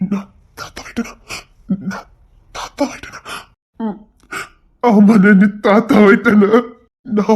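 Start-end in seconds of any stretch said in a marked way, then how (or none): 0.1-4.0 voiceless, halting question; stunned whisper; awed whisper. Acted. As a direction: whisper it in disbelief. Grandfather stunned.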